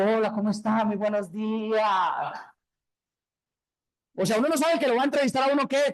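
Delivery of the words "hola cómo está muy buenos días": slow, drawn-out sugary interview greeting; mock eager job candidate, slow and drawn out; overly polite greeting. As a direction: greet the interviewer far too sweetly. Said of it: "entra uno diciendo".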